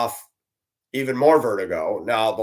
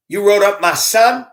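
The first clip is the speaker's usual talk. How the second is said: indignant mother; 7 semitones higher, 5 dB louder than usual. Retold or imitated. Parent confronting driver at door.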